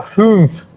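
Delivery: "fünf" with the umlauted ü; umlaut pronunciation. Shown as a demonstration. Teacher showing learners the umlaut, German ü in "fünf". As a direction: say "fünf" with German ü, rounded, not plain U. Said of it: "un umlaut, los dos puntitos arriba".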